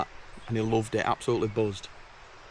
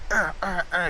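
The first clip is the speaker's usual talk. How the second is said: frustrated grunts; 8 semitones higher than usual. Retold or imitated. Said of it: "getting all angry about it".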